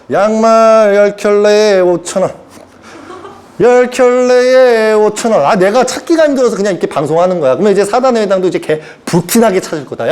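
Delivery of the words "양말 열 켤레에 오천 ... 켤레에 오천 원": slow, drawn-out vendor chant; a mock street hawker stretching the price; street hawker call. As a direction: sell socks from a van. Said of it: "지금 이러고 있어".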